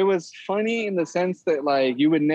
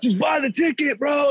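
mock impatient clerk; 12 semitones higher than usual. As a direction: mimic a rude ticket guy losing patience. Impatient ticket clerk retold.

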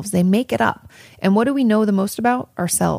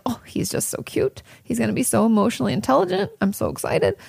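higher, breathy gushing delight; gushing over a cute kid; 5 semitones higher than usual. Retold or imitated. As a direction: melt over how cute he is. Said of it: "I'm always like".

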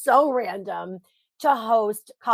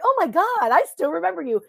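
excited fan; 7 semitones higher, 4 dB louder than usual. Retold or imitated. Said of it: "be like".

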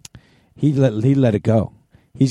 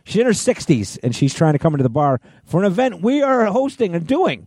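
high-pitched, exasperated emphasis; indignant; 7 semitones higher than usual. Real, not acted. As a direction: stress each fact in outraged disbelief. Indignant about mom being carded.

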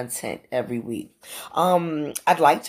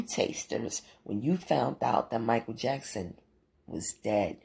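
hushed whisper; 3 semitones lower, 6 dB quieter than usual. Acted. Asking listeners about a singer's death.

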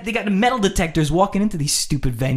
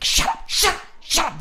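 forceful high stage whisper; loud whispering. Retold or imitated. Girls shushing the drunk guy, loud whispering. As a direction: hush him in an urgent loud whisper. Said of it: "They're loud whispering, like".

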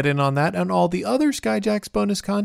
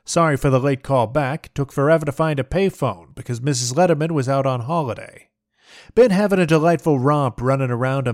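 put-on glamorous old Hollywood transatlantic accent. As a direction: read it like a golden-age film star, transatlantic. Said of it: "it's a transatlantic accent".

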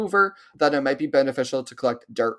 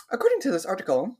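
reporter voice; 4 semitones higher, 3 dB quieter, faster than usual. Retold or imitated. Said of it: "you're like".

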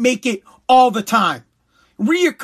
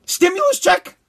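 a hint of a scoffing father, higher on stimulus check; disbelieving dad; 4 semitones higher than usual. A hint of his dad scoffing at the stimulus check. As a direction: scoff like a tough old dad. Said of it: "my dad ... would be like".

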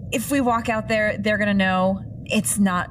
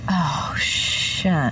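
breathless whispered oh shit; whispered curse. Real, not acted. Player whispering to the table, tense hushed curse. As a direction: hush it under your breath. Tense scene, enemy waiting outside.

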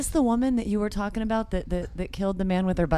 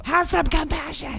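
high, slow mock teacher voice; prim scolding imitation; 8 semitones higher, slower than usual. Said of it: "She couldn't have said that in a better tone".

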